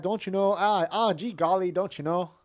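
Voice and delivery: high, loud North Dakota imitation; near-Canadian accent. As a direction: ham up a northern Midwest accent. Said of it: "That's almost like Canadian".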